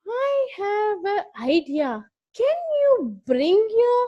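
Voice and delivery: butter him up like a scheming wife; wife sweet-talking the crocodile into bringing his friend, coaxing. Acted. Wife coaxes her husband.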